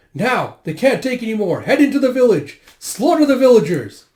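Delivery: high, loud battle orders; shouted command. Acted. Enemy orders soldiers into the village, shouted command. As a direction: roar the troops onward, pitched high.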